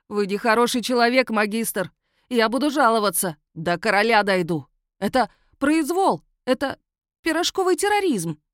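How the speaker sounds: high, loud aggrieved whine; whining werewolf. Acted. Cuffed werewolf to the magistrate, high whining protest. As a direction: complain to the bitter end.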